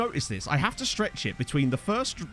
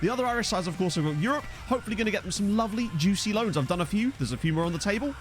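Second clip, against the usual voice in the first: upbeat, higher-pitched show opener; show intro; 4 semitones higher than usual. Acted. Streamer opening the show to chat, upbeat intro delivery. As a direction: roll out the intro over the music.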